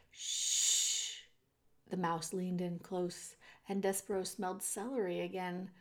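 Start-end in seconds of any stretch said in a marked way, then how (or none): 0.1-1.2 long, voiceless shushing; drawn-out shh; hushing. A narrator's reading. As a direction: cut someone off with a hush. Threadmaster hushes Despereaux again.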